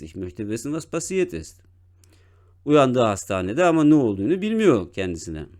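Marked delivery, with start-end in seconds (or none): 0.0-1.6 dropped to a whisper. Shown as a demonstration. Teacher whispering the patient's question to the class. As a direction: breathe the words out without voice. Teacher rereads the line much softer.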